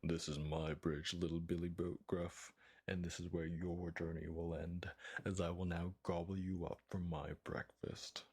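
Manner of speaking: a lightly voiced sinister troll. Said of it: "in a very sinister voice".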